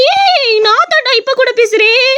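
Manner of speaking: haunt them in a high ghostly voice; the toilet ghost scaring the boy in a high shrill voice. Acted. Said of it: "வேற குரல்ல பேசாத".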